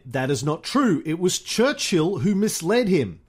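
theatrical, measured memoir narration; lively recital with swelling stresses; memoir reading. A narrator's reading. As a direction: read it like a grand storyteller.

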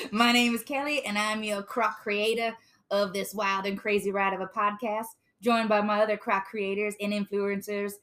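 lightly put-on Australian accent; Australian pelican impression. Host introduces co-creators to listeners, in a put-on Australian accent. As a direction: introduce the crew in a loose Aussie accent. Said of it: "I'm channeling my, if you can't tell".

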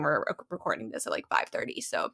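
sleepy, quiet and trailing off; drowsy. Real, not acted. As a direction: let it fade, half asleep. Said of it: "I'm definitely feeling a bit drowsy right now".

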